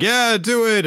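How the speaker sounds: high, lifted cheering; cheer team shout. Retold or imitated. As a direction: imitate a cheerleader egging someone on. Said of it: "on the cheer team".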